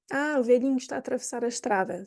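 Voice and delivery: softly and kindly, velhinho said gently; kind, soft phrasing. Shown as a demonstration. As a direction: say it as if fond of him. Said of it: "vamos dizer velhinho".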